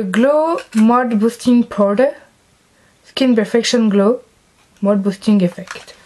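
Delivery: slow English with a French accent; bad English accent. Real, not acted. Vlogger reads a powder's English name, poor French-accented English. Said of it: "accent de merde".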